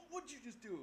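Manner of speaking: high alarmed parent voice; a mild imitation of the parent; startled parent. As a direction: parent asks what the kick was. Parent reacting to the door kick.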